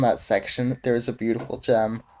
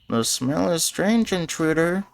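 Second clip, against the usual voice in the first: challenging goblin; 5 semitones higher than usual. Acted. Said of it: "he challenges".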